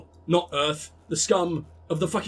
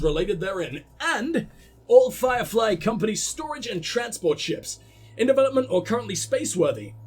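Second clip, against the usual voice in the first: automated message read-out; 2 semitones higher than usual. Acted. Company listing discontinued services, formal automated announcement. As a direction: read it like an official automated notice.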